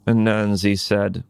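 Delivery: plain reading voice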